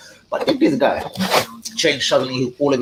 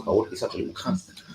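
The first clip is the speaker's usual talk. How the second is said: muttered aside; 7 dB quieter than usual. Real, not acted. Aside after teasing.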